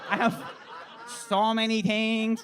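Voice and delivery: slow stretched vendor line; a lightly voiced Thai vendor; drawn-out mock vendor; ladyboy voice. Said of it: "straight for a ladyboy voice".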